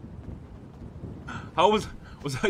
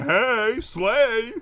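higher, lightly put-on girly voice; mock sassy greeting; girly catchphrase; 4 semitones higher than usual. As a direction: toss it out in a feminine lilt. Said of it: "going around on Peanut going".

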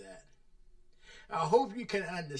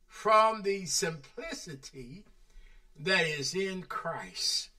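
solemn scripture reading; 3 semitones higher, slower than usual. Acted.

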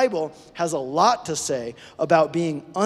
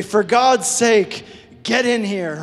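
mock exasperated call; 3 semitones higher, 4 dB louder, slower than usual. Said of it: "We say".

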